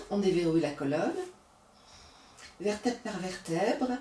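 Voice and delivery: calm, unhurried yoga guidance; soothing yoga teacher talking students through the breaths; guided yoga breathing. Acted. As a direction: lead the class gently through each breath.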